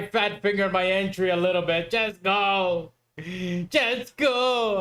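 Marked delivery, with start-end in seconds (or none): 1.9-4.8 begging the chart to move, pitch climbing higher; pleading with the market. Real, not acted. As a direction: urge it on like a desperate fan, calling out "just go".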